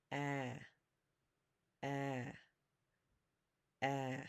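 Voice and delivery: "A" said as the short vowel in English apple; vowel sound demo. Shown as a demonstration. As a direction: say "A" like the start of apple, held evenly. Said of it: "the way you would say apple".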